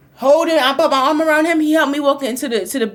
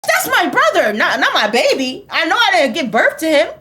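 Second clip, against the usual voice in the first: mom ranting; 5 semitones higher, 3 dB louder than usual. Retold or imitated. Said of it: "My mama over here like".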